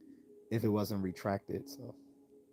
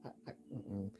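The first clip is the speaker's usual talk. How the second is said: disgusted disbelief. Retold or imitated. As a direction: recoil at the very idea. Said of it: "I'm like".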